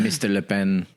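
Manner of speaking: put-on lightly French-accented address. Shop clerk slipping into the caller's French accent. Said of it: "said that in a French accent".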